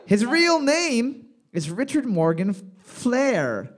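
slow deliberate question reading; slow quiz read. Real, not acted. Quiz host reading a question slowly. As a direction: read each name slowly for the teams.

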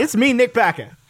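light Aussie voice; lightly voiced Aussie; Australian accent. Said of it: "you have to do the accent".

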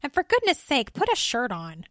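tut-tut at a creator's content; dismayed woman. Acted.

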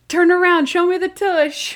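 loud, high mock command; imitated flirty demand. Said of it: "And she's like".

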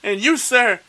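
mock pompous official. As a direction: announce the ridiculous title like a pompous bureaucrat. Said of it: "So it's like".

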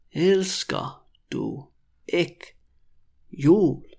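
drawn-out question with long gaps; very slow, word by word. Shown as a demonstration. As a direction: dictate each word to beginners. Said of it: "when I say it really slowly".

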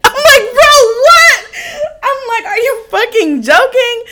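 high, loud, laughing disbelief; incredulous outburst. Retold or imitated. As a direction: squeal in mock outrage at your boyfriend. Retells her outraged disbelief at boyfriend.

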